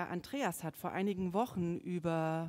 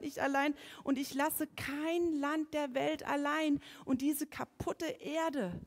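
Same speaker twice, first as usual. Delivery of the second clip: fervent preaching; 5 semitones higher, 3 dB louder than usual. Acted.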